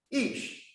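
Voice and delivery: Ish breathed out as a high whisper, eesh. Retold or imitated. Adam names man in a breathy whisper. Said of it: "he said".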